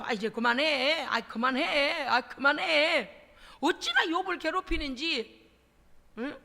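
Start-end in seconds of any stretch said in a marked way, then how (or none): 0.0-3.3 fed-up plea. Retold or imitated. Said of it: "마음으로 그랬어요".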